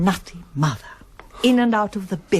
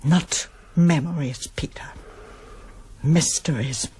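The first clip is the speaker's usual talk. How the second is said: whispered correction; 3 semitones lower than usual. Acted. Mother corrects son, hurt.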